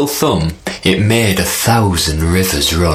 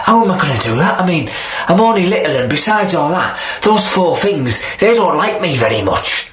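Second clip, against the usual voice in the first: spider; 7 semitones higher, faster than usual. Acted. Spider frets.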